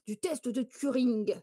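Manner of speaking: "test de Turing" in a lightly hammed-up English accent, "Turing" anglicised; mock English accent. Streamer showing off her mock English accent to chat. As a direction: say "Turing" the English way, half-joking. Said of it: "avec m-, un magnifique accent".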